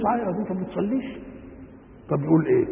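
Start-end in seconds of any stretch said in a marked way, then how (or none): 0.0-1.2 rebuking reproach. Shown as a demonstration. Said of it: "معناها أنك تنكر عليه".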